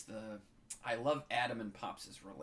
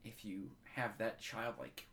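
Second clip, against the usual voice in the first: getting moved. Real, not acted. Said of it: "I'm getting moved here".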